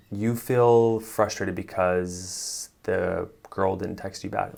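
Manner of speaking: dragged-out, slow reflection; slow robotic. Shown as a demonstration. Coach mocking a clumsy reflection, slow. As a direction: spell it out stiffly and slow. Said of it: "There's that versus".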